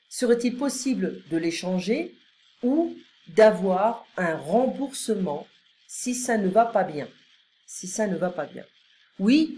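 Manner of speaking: measured, clearly articulated French phrases; model dialogue reading. Acted. Customer asks about exchanging a coat, model dialogue reading. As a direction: read each polite line out carefully for learners.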